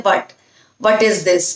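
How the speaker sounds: "what" said lazily as "vat"; "What" mispronounced like "vət"; wrong "what". Shown as a demonstration. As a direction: careless "what" with flat short vowel. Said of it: "नहीं बोलना है आपने".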